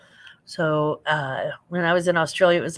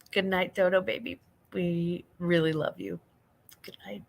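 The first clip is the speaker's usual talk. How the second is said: tender good night; 5 dB quieter than usual. Real, not acted. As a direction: wish a little one good night, gently. Saying good night to baby.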